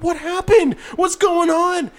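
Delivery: high, loud, urgent questioning; alarmed mother impression. Mother comes over to her bawling child, imitated in high alarm. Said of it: "his mother comes over".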